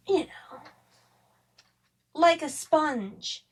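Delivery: unvoiced whispered aside. Host drops to a secret aside while describing the book, whispering. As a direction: breathe it out, no voice.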